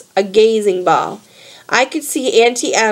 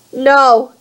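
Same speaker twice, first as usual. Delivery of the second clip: plain reading voice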